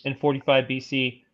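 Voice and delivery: even, measured encyclopedia read; steady informational narration; reading aloud. Real, not acted. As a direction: read the article out formally. Reads an article aloud.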